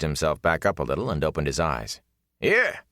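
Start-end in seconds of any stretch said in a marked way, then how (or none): 2.4-2.8 sharply higher mock surprise; incredulous echo. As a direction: scoff at the very idea. Ara's scoff.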